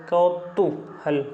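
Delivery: कौतूहल drawn out slowly as kau-tuu-hal; slow कौतूहल with a long uu in the middle; careful sounding-out. Shown as a demonstration. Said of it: "एक minute रुक".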